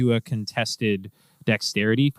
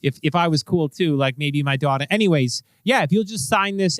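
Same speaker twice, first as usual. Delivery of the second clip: slightly higher, bashful cop; lightly voiced embarrassed cop; apologetic cop; 3 semitones higher than usual. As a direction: mumble apologies like an awkward fan.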